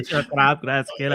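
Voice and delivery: Scots lawn ad voice, lightly done; a light Scottish accent like the commercial. Acted. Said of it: "I knew you'd be able to do it better than me".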